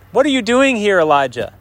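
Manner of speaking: high-pitched, challenging question; emphatic, insistent query; pointed questioning. Acted. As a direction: demand it, starting high and dropping. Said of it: "This double question".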